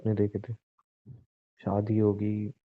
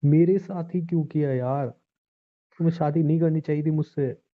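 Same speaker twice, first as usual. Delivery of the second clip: higher, strained and pleading; anguished outburst; 4 semitones higher than usual. Acted. Husband falling apart, asking his wife why, anguished. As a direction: come apart with despair.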